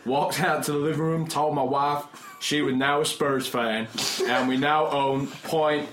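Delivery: mock Texan email reading; terrible Southern accent. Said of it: "my terrible, terrible Southern accent".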